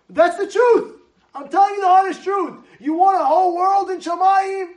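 fiery preaching. Real, not acted. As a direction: preach it at full force. Preaching at full force.

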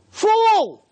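high, anguished cry. Acted. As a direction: wail it loudly like a heartbroken father. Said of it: "Hashem's crying".

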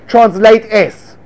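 slow, deliberate prompt to a student. Shown as a demonstration. Teacher prompting the student to translate, slow and deliberate. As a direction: stretch each word out for the student. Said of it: "you say".

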